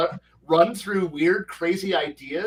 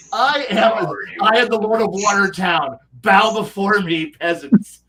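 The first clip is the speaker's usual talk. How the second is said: pompous tyrant decree, louder; dark lord; 5 dB louder than usual. Retold or imitated. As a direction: proclaim like a petty warlord. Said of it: "he's like".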